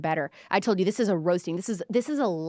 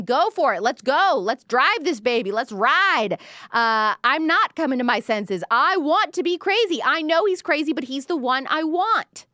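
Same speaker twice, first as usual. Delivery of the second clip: excited; 5 semitones higher, 3 dB louder than usual. Retold or imitated. Hyped paraphrase urging to floor it.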